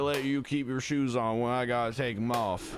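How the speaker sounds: country Southern accent, playing along; hammed-up Southern accent; put-on Southern accent. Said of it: "I'm stuck in this accent now".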